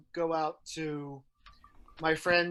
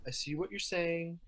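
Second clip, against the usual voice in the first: imitating a subdued partner, softer; quieted down; 6 dB quieter than usual. Husband conceding after being snapped at, quieted down. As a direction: give in softly, as the retold husband. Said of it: "he gets a little quiet".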